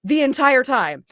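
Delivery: laughing through hands over mouth; muffled. Real, not acted. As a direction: talk behind cupped hands. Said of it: "if I sound muffled".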